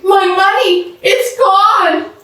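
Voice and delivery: high, upset cry; distressed cry. Acted. Mashonda telling Mrs Kim her money is gone, high distressed cry. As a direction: wail it in alarm.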